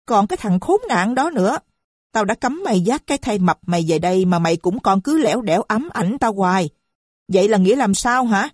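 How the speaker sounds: rip into the man upstairs; wife raging at her husband upstairs; furious rant. Acted. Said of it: "Mụ cồng cấn".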